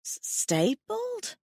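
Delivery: high, slow, stammering in horror; horrified stammer. A narrator's reading. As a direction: choke out the word in shock. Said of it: "horrified at the thought".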